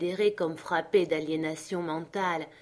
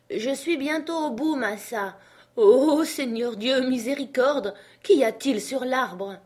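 high voice bursting into loud alarm; startled servant; 6 semitones higher, 5 dB louder than usual. Acted. Jupiter discovers something on the tree, startled.

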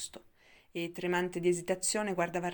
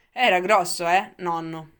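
boyish, much louder, with a hint of a chuckle; chuckling boy; 10 dB louder than usual. A narrator's reading. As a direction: ask it with an amused little laugh. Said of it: "ridacchiò il ragazzo". (ridacchiando, voce di ragazzo divertita)

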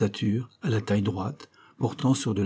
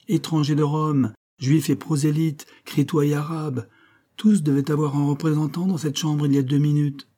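mock sermon; 3 semitones higher than usual. Rector mocking curates, sermon-like.

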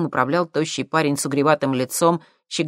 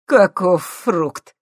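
slow, louder chuckled remark; amused; 4 semitones higher, 6 dB louder, much slower than usual. A narrator's reading. Nikolai amused by the cheeky thief, slow chuckle. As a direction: say it with a laugh. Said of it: "рассмеялся Николай Вадимович".

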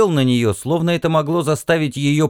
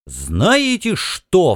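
mock exclaiming captain; 6 semitones higher, much slower than usual. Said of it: "вскричал человек".

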